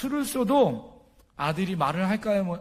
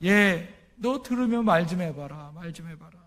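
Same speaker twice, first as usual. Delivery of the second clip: ordinary delivery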